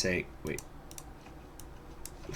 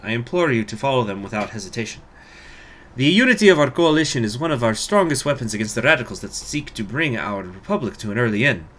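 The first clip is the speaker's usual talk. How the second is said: put-on Russian accent; 3 semitones higher than usual. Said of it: "Boy, my accent is just".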